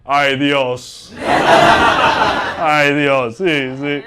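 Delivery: low, drawn-out Spanish muttering; casual Spanish exclamation. Retold or imitated. Showing off his Spanish to a group of Latinos, low and casual. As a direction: toss out Spanish to fit in. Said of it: "I'll be quick to be like".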